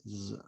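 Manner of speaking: isolated "z", buzzed with extra force; forceful z sound. Shown as a demonstration. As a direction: press out "z" as a sound, not a letter. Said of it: "hace un poquito más de fuerza". (sonido "z" con un poco más de fuerza)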